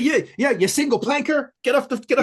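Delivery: loud, high mock Boston heckle; hammed-up Boston accent heckling a snowboarder. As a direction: yell it like a Boston guy on the slopes. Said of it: "that Boston accent".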